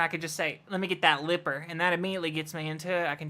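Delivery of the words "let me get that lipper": easy country-accented trigger phrase. Shown as a demonstration. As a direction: slip into a country twang. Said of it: "if I'm doing a country accent".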